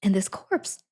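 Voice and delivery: notice something odd and get excited; hammed-up dawning surprise; growing realisation. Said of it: "she's like".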